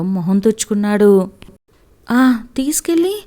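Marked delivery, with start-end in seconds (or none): 2.1-3.2 higher, anxious prompt; alarmed question. A narrator's reading. Mother dreads what her son will say, alarmed. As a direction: urge him on, frightened. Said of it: "గాబరాగా అడిగింది కామేశ్వరి".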